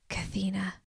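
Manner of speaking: soft, tender calling of a name; loving authority. A narrator's reading. Yeshua calls Stone by her true name, softly authoritative. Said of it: "Yeshua's voice held love and authority".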